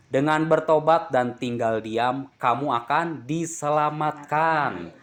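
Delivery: slow, solemn Bible reading; scripture reading. Acted. Preacher reads Isaiah to the congregation, slow and solemn. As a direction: weigh every word of the verse.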